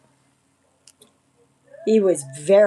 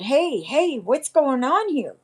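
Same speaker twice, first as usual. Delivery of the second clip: calling out sharply; 7 semitones higher, slower than usual. Retold or imitated. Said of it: "I opened up the door and I said".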